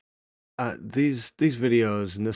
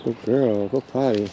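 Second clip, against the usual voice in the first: talking to a dog; 2 semitones higher, 5 dB louder than usual. Real, not acted. Urging dog to potty.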